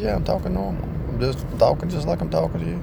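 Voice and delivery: high, fast defensive protest; husband defending himself to the counselor, high and quick; imitating himself. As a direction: insist in a high pitch that you're normal. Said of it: "I said".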